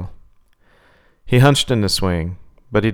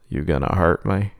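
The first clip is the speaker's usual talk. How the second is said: low, soft, menacing clown; creepy clown; 3 semitones lower, 4 dB quieter than usual. Acted. The clown taunts Sadie about her knife, low.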